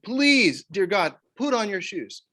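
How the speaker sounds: high, loud, drawn-out parent at wits' end; exasperated plea. Retold or imitated. Father pleading with daughters over shoes, high exasperated plea. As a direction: beg the kids like it's the last straw. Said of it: "I'm throwing a fit".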